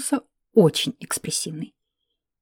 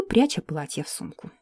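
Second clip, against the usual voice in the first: ordinary delivery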